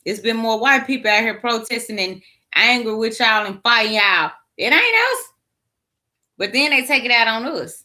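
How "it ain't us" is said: indignant outburst. Real, not acted. Angry rant about protests.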